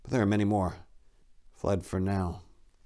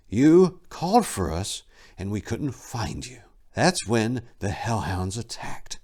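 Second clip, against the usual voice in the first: restrained, fading to a whisper; 3 semitones higher than usual. Acted. Silenus answering Tor's question, restrained and fading. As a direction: hold the anger back, let it sink to a whisper. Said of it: "His tone restrained".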